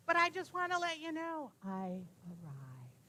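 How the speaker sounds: a gentle reassurance that fades to a hush; Uncle Bob's message. Retold or imitated. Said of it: "He sounded so good, so happy".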